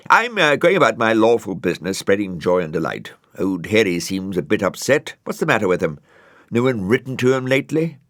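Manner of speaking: jaunty, self-pleased snail chatter; a lightly voiced chirpy snail; Brian the snail. A narrator's reading.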